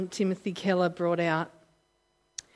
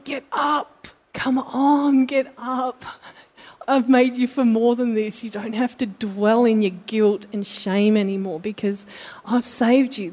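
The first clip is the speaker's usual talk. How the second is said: urging voice of Jesus; 3 semitones higher, 5 dB louder than usual. Retold or imitated. Jesus urging the ashamed believer to rise, loud and rousing. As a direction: lift them up like a loving saviour.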